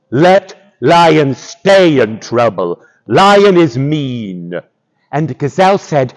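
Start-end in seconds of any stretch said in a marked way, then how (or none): 0.1-4.6 lightly voiced slow rhinoceros; slow, heavy-paced rhinoceros grievance; rhinoceros character. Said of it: "Rhinoceros said".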